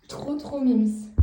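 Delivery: slow, drawn-out "Trop, trop mimes"; slow doting coo over the dog. Real, not acted. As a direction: stretch out "mimes" lovingly.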